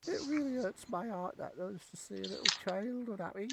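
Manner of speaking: high, odd little goblin voice; tender-hearted goblin, pitched well up. Acted.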